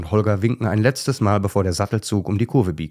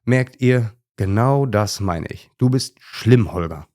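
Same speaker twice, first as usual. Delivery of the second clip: mildly exasperated; 3 semitones higher, slower than usual. Acted. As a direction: let the annoyance show on the complaint. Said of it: "Völlig genervt ruft Lumpi".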